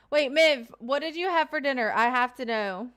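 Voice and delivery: excited. Real, not acted. Urgent question to chat member.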